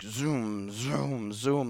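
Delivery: mock energy rush. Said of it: "my body's just".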